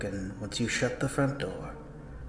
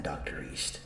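softer, breathed name; whispered name; 7 dB quieter than usual. Acted. The voice praising the scholar, whispering his name. Voice addresses him, then hushes.

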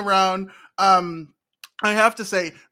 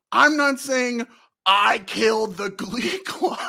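quoting Mister Rad; 3 dB louder, slower than usual. Retold or imitated. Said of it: "favorite lines of him saying".

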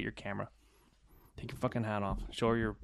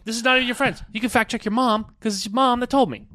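loud laughing protest; 11 semitones higher, 8 dB louder than usual. Real, not acted. Laughing protest about mom's fact.

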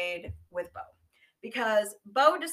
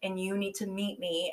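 hushed quote; 3 semitones lower, 6 dB quieter than usual. Retold or imitated. Amber's secretive demand retold.

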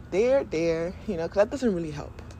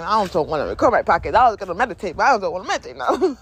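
mock pissed-off complaint; re-enacted bratty refusal; retold grumpy grumbling; 4 dB louder, faster than usual. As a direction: grumble it like a sulky brat, half joking. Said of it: "kinda pissed off".

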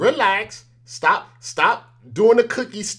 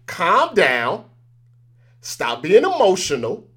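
calming; slower than usual. Shown as a demonstration. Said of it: "that's what I have to do to them".

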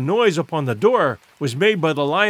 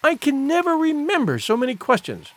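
put-on higher-pitched girl's protest; lightly voiced girl, pitched up; interrupting; 8 semitones higher than usual. A narrator's reading. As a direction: protest at being bombarded. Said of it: "interrupted the girl".

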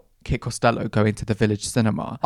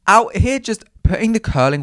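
higher, animated burst about the hairstylist; outraged excitement; 9 semitones higher, 7 dB louder than usual. Real, not acted. Telling listeners about a careless hairstylist, worked-up excitement. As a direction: launch into the story in disbelief. Outraged start of a hair story.

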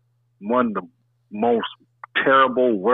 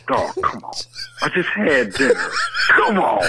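laughing; 3 semitones higher than usual. Real, not acted. Laughing in disgust.

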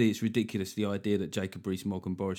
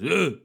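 caveman grunt; 7 semitones higher than usual. Retold or imitated. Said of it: "one of them stands up and goes".

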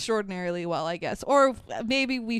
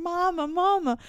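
little bunny; 7 semitones higher than usual. Retold or imitated. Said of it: "little baby bunny with the speech impediment".

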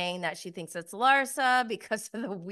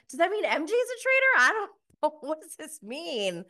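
much higher, fast, flustered questions; confused panic; 9 semitones higher, 4 dB louder, faster than usual. Retold or imitated. Confused cast member wondering about M J, imitated flustered panic. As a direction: babble in bewildered panic. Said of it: "Everyone's confused".

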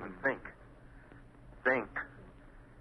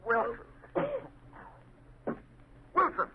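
calling out; 13 semitones higher than usual. Acted. Calling to unconscious man.

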